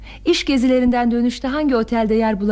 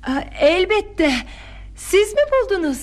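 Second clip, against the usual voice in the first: feigned surprise; 5 semitones higher than usual. Acted. Daughter pretending to meet the bag's finder, feigned surprise. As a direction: act surprised and pleased for father's benefit.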